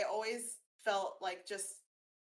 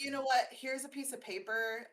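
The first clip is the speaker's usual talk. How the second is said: imitating mom; 5 semitones higher than usual. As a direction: play a mom handing over a distraction. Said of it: "So she was like".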